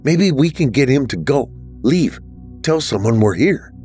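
lightly voiced girl with a spark of hope; hopeful. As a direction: reach for a way out, hopeful. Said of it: "a spark of hope in her voice".

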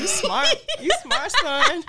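mock praise. Teasing praise quote.

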